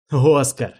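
desperate cry. Acted. Отчаянный крик героя вампиру.

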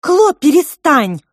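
loud, high, slow protest; protesting shout. A narrator's reading. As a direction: cut him off loudly. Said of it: "запротестовала Маринка".

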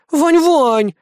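high, whining plea; girl whining plaintively; plaintive whine. Acted. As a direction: wheedle his name pitifully. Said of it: "жалобно продолжала конючить киса".

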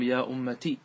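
an "i" vowel after the t in أمتي; kasra without ya. Shown as a demonstration. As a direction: end أمتي on "ti": "ya ummati". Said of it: "بكسر التاء بدون ياء".

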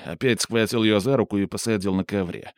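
plain reading voice

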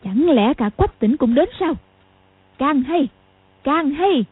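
a touch of a barked challenge; mild shout. Acted. Old woman shouting defiantly at her enemies, mildly. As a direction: call out in defiant glee. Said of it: "Cầu Thiên Xích quát lên".

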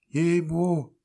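very high, protesting peasant woman. A narrator's reading.

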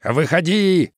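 menacing order from a ghostly voice; disembodied voice ordering ominously. A narrator's reading. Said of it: "зловеще сказал голос".

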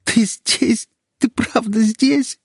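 high, trembling disbelief through held-back tears; held-back sobs. Acted. Captive wife to her rescuer, high and tearful. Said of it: "Из моего горла рвались рыдания".

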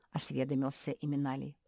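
usual speaking voice

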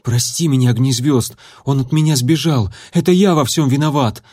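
gasping guilty apology; out of breath. Acted. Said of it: "задыхаясь".

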